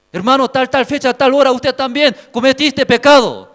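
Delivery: accusation building to a loud, high shout; God accusing. Acted. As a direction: start measured, then thunder out each charge.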